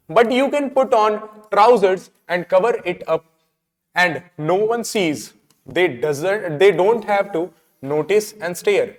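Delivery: slow, deliberate textbook reading; play read-aloud. Acted. Teacher reading Derry's suggestion to students, slow read-aloud. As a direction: read it out slowly with pauses. Reads the play's lines aloud.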